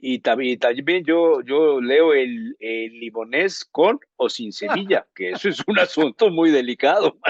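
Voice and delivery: high, loud joking boast. Real, not acted. Adding a silly boast to the banter, laughing. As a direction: spin the joke out through laughter. Joking exaggeration, higher, louder.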